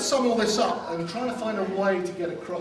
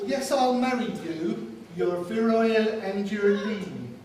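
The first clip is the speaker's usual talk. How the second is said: put-on a light West Country accent, recited; best man's put-on West Country poem voice; 3 semitones higher than usual. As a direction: recite it in a mock West Country burr, playful. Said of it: "tell this poem in a West Country accent".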